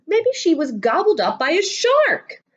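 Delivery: put-on high, dramatic child's guess; worried kid. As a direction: gasp it like a kid imagining the worst.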